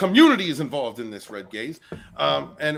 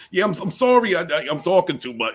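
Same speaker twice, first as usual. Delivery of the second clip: higher, louder burst at first, then easing; mock over-excited apology; imitating excitable Vinny; 4 semitones higher, 4 dB louder than usual. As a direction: blurt it like someone who can't stop talking. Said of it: "Vinny was very excitable yesterday".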